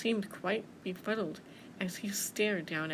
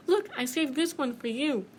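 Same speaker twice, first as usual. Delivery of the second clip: higher-voiced, smiling mouse; 4 semitones higher, 5 dB louder than usual. Mouse giving bear an apple, smiling. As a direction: offer it like a gift. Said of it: "said Mouse and smiled".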